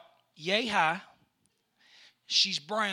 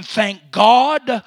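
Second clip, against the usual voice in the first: chicken's relief; 3 semitones higher, 18 dB louder, slower than usual. Pretend. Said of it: "she was going".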